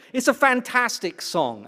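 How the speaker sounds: high excited praise. Real, not acted. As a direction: rave about it. Praising the song.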